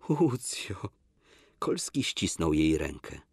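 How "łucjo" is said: Łucjo whispered, breathy and voiceless; whispered Łucjo, tender plea. Acted.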